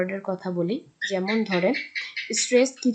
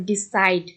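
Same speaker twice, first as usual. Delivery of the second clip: ডিসাইড with "SIDE" stressed; ডিসাইড, light "de", weighted second syllable; stress on last syllable; 2 semitones lower, 3 dB louder, slower than usual. Shown as a demonstration. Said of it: "ডিসাইডের উপর গিয়ে স্ট্রেসটা".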